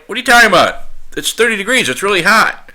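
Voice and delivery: incredulous friend. Retold or imitated. Phone quarrel over temperature.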